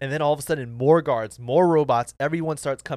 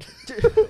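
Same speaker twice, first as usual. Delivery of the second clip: loud, high-pitched burst of laughter; 8 dB louder than usual. Real, not acted. Co-host escaping the sad turtle story, high loud laugh.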